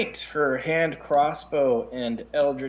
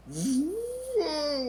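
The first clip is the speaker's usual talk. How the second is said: drawn-out whoa; 13 semitones higher, 3 dB quieter than usual. Real, not acted. Player thinking up her turn.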